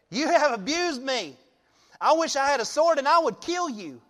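Uncle Si. Retold or imitated. Pastor playing Balaam as Uncle Si, mock-cranky. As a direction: play the cranky old rider, hammed-up. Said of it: "I see Balaam as the original Uncle Si".

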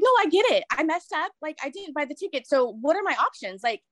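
pleading to mom. Retold or imitated.

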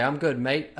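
a slight mock Australian accent. Friend greets the shaman, in a lightly imitated Australian accent. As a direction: slip lightly into casual Australian. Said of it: "Or that's Australian".

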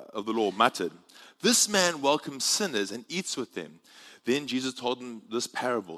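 measured Bible reading with lifted, expressive pitch; scripture reading. Acted. Preacher reading Luke's lost sheep parable to church, expressive scripture reading. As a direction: read the parable out clearly to the congregation.

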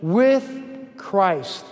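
spotlight the preposition "with"; stress on with. Shown as a demonstration. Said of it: "Underline this preposition".

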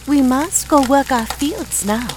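lightly voiced kindly farmer; farmer's voice. A narrator's reading. Farmer leaving for the fields, lightly voiced.

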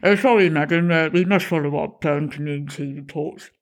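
lightly voiced hesitant young officer; a touch of a nervous constable, a little quick at first; sheepish PCSO at the door, lightly voiced; young policeman's voice.

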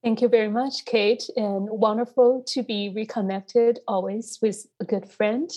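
hoarse, recovering from covid. Real, not acted. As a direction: speak through a hoarse throat. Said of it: "I will leave this hoarse voice".

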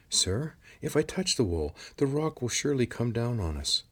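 a nervous creature protesting; worried lizard voice. A narrator's reading. Lizard objects.

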